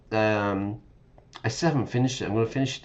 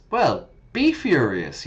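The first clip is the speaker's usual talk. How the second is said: be furious, louder on be; playful dare; 3 semitones higher, 6 dB louder than usual. Acted. Teacher joking with viewers about mispronouncing. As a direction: tease them to get angry. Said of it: "Don't be furious".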